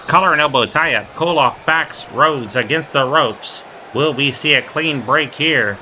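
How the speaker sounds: quick, punchy wrestling commentary; live play-by-play. Real, not acted. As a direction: call each move as it happens.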